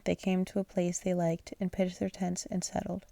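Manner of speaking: fading into a yawn. Real, not acted. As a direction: read through a yawn. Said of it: "I keep yawning".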